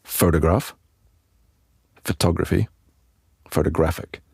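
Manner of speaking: photograph, photography, photographic each stressed clearly; walk the stress along the three words; stress drill. Shown as a demonstration. Teacher repeats the word family to show moving stress. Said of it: "I'll give you them again".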